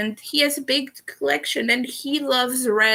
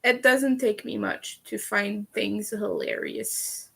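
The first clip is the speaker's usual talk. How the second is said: vocal fry; 4 dB quieter than usual. Real, not acted. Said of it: "which I also said with vocal fry".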